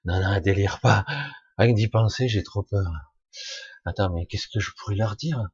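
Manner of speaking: put-on young me recoiling from the thought of talking; mock panicked refusal.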